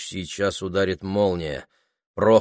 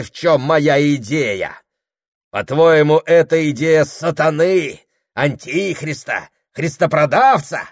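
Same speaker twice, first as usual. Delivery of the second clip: higher, louder sneering rant; mock her, then swear by your idea; scornful tirade; 6 semitones higher, 6 dB louder than usual. A narrator's reading. Husband mocking his wife's view of his idea, scornful shouting. Prokhor mocks then declares.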